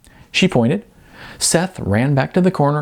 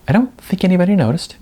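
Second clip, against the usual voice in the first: Jasmine's voice; 9 semitones higher, faster than usual. Acted. Jasmine's higher character voice.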